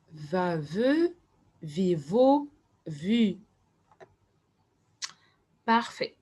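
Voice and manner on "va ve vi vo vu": "Va, ve, vi, vo, vu" chanted in linked pairs with short gaps; syllables run together. Shown as a demonstration. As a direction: read the row of syllables through in one go. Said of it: "les syllabes". (syllabes enchaînées, presque sans pause)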